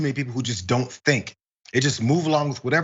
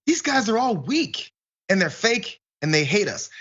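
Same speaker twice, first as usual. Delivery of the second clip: higher, slow, fed-up realization; mock disillusioned voter; 6 semitones higher than usual. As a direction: spell out the betrayal slowly and raised. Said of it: "they're gonna start going".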